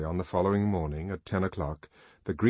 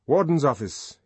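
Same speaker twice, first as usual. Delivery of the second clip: curt order; 6 semitones higher, 6 dB louder than usual. Acted. Bernard orders pilot.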